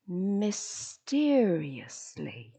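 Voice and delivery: hushed, drawn-out words with long pauses; very slow triad. Shown as a demonstration. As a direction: stretch "mysteriously", "slowly", "resistlessly" far apart. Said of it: "your slowly has to be slow".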